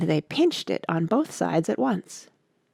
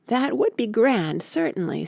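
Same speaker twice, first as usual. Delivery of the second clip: thoughtful; 5 semitones higher than usual. Acted. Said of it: "said Alice thoughtfully".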